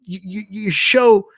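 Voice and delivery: acted-out indignant pleading; retold indignation. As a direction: protest it as a retold grievance. Acted complaint to show host.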